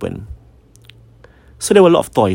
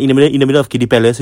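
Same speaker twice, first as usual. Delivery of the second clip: rapid disbelief; 2 semitones higher, 4 dB louder, much faster than usual. Retold or imitated. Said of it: "And I'm like".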